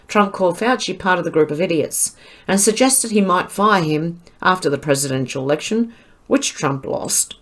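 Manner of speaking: words forced through clenched teeth; through gritted teeth. Real, not acted. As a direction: grit your teeth and read it. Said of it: "Can you hear me gritting my teeth?".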